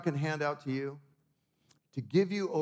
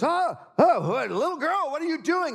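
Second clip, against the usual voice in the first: high startled man, caught off guard; a man jumping at a child's grab; a stranger's high startled voice; surprised stranger; 11 semitones higher, 5 dB louder than usual. Retold or imitated. Stranger startled by girl's hand.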